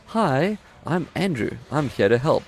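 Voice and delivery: perky scripted bot voice; old speech synthesizer. Retold or imitated. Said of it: "that little window that pops up that goes".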